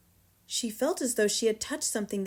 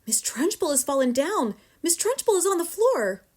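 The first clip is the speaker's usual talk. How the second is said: high outcry, rising louder; screamed; 7 semitones higher, 5 dB louder than usual. A narrator's reading. Pupil announces headmistress's fall, screaming.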